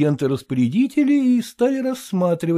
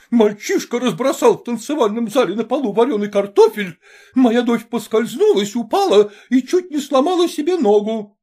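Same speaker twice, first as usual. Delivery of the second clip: higher, louder scolding; angry shouting; 8 semitones higher, 3 dB louder than usual. A narrator's reading. Mother berates Maternitskaya over her son, angry. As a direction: storm in and scold. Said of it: "и закричала".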